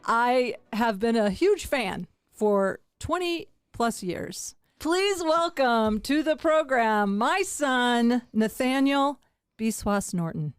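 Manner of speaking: slow, drawn-out formal welcome; show host introduction. Acted. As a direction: introduce a guest of honor slowly.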